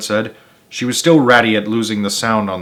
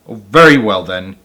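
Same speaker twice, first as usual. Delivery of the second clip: snapped; 6 dB louder than usual. Acted. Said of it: "he snapped".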